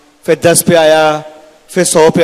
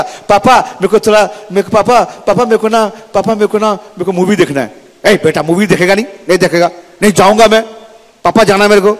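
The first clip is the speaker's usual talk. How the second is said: put-on high, pleading child's whine; whiny spoiled son; 5 semitones higher than usual. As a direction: beg papa like a spoiled kid. Whining son begs father. (ऊँची, ज़िद्दी बच्चे की रिरियाती आवाज़)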